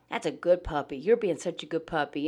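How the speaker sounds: calm, steady, matter-of-fact praise; confident praise. Shown as a demonstration. Owner calmly praising a scared puppy during a storm, confident and steady. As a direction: reassure the puppy like you're fully in charge. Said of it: "doing it in a confident manner".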